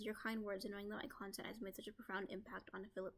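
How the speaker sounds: brisk, even read-through of an email; email read aloud. Retold or imitated. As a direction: read the reply aloud quickly. Reads an email reply aloud.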